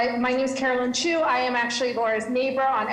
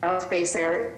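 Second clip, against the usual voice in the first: choppy audio cutting in and out; clipped phone line; 4 semitones lower, 3 dB quieter than usual. Real, not acted. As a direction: voice breaking up on a bad line. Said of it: "You're breaking up a little bit".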